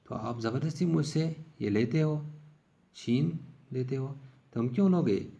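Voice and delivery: retold childish protest. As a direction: replay a small boy refusing to hand over his knife. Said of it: "میں نے ان سے کہا کہ".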